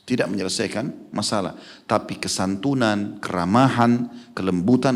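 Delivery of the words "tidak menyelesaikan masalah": quieter repeat, "Tidak" leading; softer echo. Shown as a demonstration. Preacher echoing his point quietly to the listeners. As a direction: drop the voice and lean on "Tidak". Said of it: "Emosional tidak menyelesaikan masalah".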